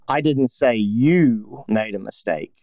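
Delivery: YOU punched, slow, falling; slow take with you stressed. Shown as a demonstration. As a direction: hit the word you. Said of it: "where do you put the emphasis on that?".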